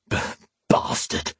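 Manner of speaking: weak, halting croak; a hurt man's croaked curse. A narrator's reading. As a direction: croak it out haltingly, like a beaten man. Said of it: "the man croaked".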